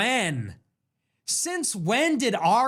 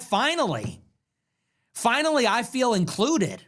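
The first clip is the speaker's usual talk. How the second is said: mock gratitude; 3 semitones higher than usual. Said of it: "I was like".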